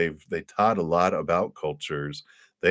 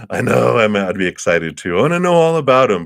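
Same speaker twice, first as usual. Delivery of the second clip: eager spirits; 5 semitones higher, 9 dB louder, faster than usual. Retold or imitated. Spirits voiced, eager to share.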